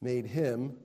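slow, measured scripture reading; deliberately slow. Real, not acted. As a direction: set the phrase apart with pauses. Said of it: "I'm gonna say this slowly".

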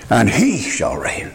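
slow, with the weight on "he"; stress on he. Shown as a demonstration. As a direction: lean on "he" the way Handel wrote it. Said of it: "the key word is he".

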